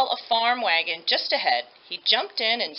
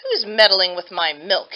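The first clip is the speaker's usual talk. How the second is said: louder gruff demand; shouting milkman; 2 semitones lower, 5 dB louder than usual. Acted. Milk and cheese man catching a thief, shouting. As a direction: boom it out at the can. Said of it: "he shouted".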